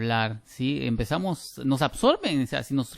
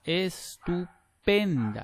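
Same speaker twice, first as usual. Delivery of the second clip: "Estupenda" very slow, PEN raised in pitch; higher stressed syllable; 5 semitones higher, much slower than usual. Shown as a demonstration. Teacher showing the frequency rise, high stressed PEN in "Estupenda". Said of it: "es más aguda la sílaba acá".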